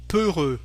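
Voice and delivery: peureux ending on a tight rounded vowel, falling; closed French eu. Shown as a demonstration. Teacher contrasting peureux with peur, closed French eu. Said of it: "Can you hear the difference?".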